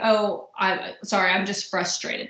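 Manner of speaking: gentle apologetic explanation; slow, soft "Oh" easing into it. Shown as a demonstration. To her husband, explaining gently and apologetically. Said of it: "maybe saying".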